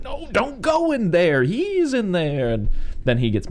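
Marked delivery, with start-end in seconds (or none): 0.0-2.5 high, drawn-out mock cry of warning; retold frantic warning. Doctor calls after fleeing girl in the woods, mock frantic warning. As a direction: imitate a long, high-pitched desperate call. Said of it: "He's like".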